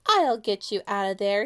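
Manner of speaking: reassuring call from the hole edge; mild shout. Acted. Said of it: "he shouted".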